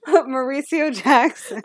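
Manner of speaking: Mauricio Jackson rolled in a hammed-up Italian accent, slow; mock Italian accent. Shown as a demonstration. Cohost showing off the name for her friend, mock Italian accent. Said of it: "I really appreciated the accent".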